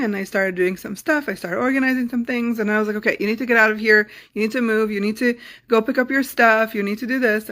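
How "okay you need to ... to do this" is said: bossy micromanaging. Retold or imitated. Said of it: "kinda micromanage them".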